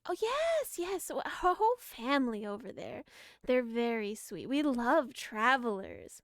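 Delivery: lightly voiced sweet granny; coaxing old granny, slow. GM keeps granny NPC voice.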